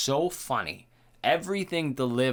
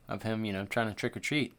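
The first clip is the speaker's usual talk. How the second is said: ordinary talk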